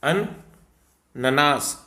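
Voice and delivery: अननास stretched syllable by syllable; dictating the correct spelling to the class; slow spelled demo. Shown as a demonstration. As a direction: pronounce अननास very slowly and clearly. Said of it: "ठीक है".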